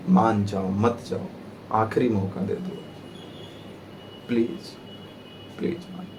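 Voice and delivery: soft, slowing mock plea, fading to very faint; mock pleading. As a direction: beg quietly, playing at desperation. Voices friction begging the body.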